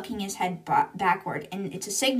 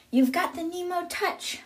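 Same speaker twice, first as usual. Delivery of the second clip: mock yell; 9 semitones higher than usual. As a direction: imitate someone calling out, pitched up. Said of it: "yells at her".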